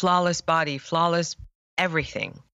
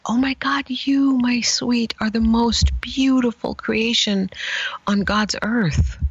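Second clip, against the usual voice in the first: higher, hushed and tender, slowing into a whisper; tender adoring parent; 5 semitones higher, slower than usual. Retold or imitated. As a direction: coo it like a parent adoring a newborn. Parents adoring a child, retold.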